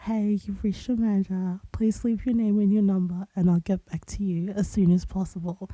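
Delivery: understated, over-it phone greeting; a touch of weary indifference in a routine greeting; bored voicemail greeting. Shown as a demonstration. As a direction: recite your voicemail as if mildly bored. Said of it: "they say that I sound so bored".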